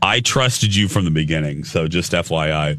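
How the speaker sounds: talking with something in mouth; muffled by a cough drop; mouth full. Real, not acted. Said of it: "What's in your mouth?".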